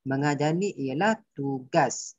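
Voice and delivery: ordinary talk, nothing marked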